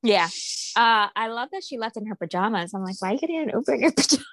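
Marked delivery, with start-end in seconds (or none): 3.0-4.2 fast, amused incredulous question, laughing through it; laughing disbelief. Retold or imitated. To co-host about pajamas, laughing fast disbelief. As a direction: tease her for leaving in pajamas, laughing. Mocking friend leaving in pajamas.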